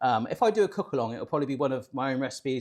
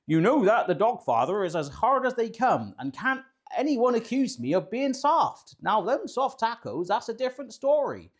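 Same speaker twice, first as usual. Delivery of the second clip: a famous rapper; 6 semitones higher than usual. Acted. Host reads a recipe intro aloud, badly faked rapper voice. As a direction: stretch it out in a hammy put-on voice. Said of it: "try this in my rapper voice".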